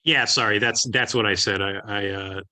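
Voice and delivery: glitchy robotic robot voice; choppy digital robot voice on a bad connection. Real, not acted. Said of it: "apologize for the robot voice".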